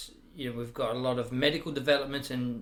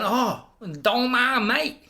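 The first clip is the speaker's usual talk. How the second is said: slow, much higher and louder; beaming friendly hello, drawn out; cheery greeting; 9 semitones higher, 6 dB louder, slower than usual. Retold or imitated. Cheerfully greets the Vietnamese guy.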